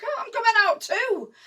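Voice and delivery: high, loud answering call; shouting back. Acted. Johnny answering the German soldier, high shout. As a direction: holler your reply across the gap. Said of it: "and Johnny shouts back".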